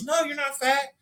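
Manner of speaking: very high squeaky imitation; mock reassuring friends. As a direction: mimic a roomful of fawning friends in falsetto. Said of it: "everyone in the room goes".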